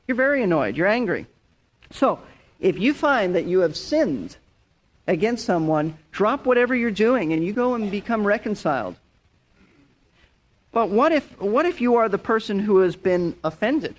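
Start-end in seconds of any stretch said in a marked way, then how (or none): none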